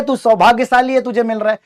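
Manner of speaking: father laughing at his son's love letter; laughing dad. Retold or imitated. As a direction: tease the crying kid while laughing. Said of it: "ये कहते हुए वो हंस रहे हैं".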